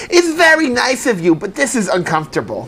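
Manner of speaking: mom impression in a poor New York accent, starting high; bad New York accent. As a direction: attempt a New York mother, badly. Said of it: "You have a horrible New York accent".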